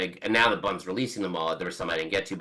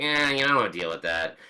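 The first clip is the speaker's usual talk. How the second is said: reluctant bandmate impression. Musician putting off an interviewer, lightly imitated reluctance. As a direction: imitate a man mildly brushing it off. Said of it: "this is my impression of how he sounds".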